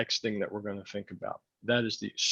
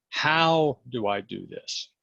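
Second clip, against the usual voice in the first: slow demo; slower than usual. Shown as a demonstration. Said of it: "First word in the question".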